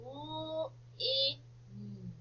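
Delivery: L-I-N as three separate drawn-out sounds; sounded out. Shown as a demonstration. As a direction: sound out L-I-N slowly, phonics style. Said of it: "try spelling lin".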